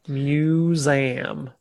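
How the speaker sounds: Boston accent. Shown as a demonstration. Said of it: "go ahead and say it".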